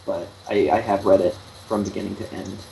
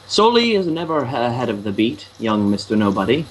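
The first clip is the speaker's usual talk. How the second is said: lightly theatrical, lilting wizardly recital; a hint of grand fantasy-film oratory; Lord of the Rings quote; 3 semitones higher than usual. Friend parodies a film line about the beat, lightly grandiose. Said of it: "that line from Lord of the Rings".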